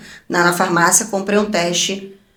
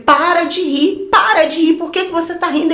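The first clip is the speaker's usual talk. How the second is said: bronca irritada; 6 semitones higher than usual. Retold or imitated. Bronca no marido que ri.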